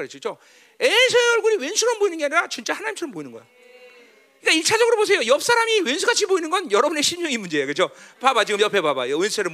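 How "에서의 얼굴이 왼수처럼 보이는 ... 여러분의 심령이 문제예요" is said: emphatic preaching. Real, not acted. Preaches with full force.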